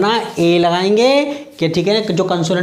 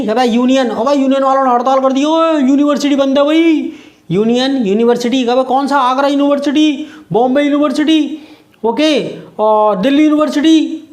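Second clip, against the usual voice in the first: excited student chatter; 5 semitones higher than usual. Pretend. Acting out students chatting about strike.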